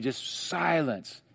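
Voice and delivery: calm it down with a quiet word; soft command. Retold or imitated. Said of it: "he tells the wind and the waves".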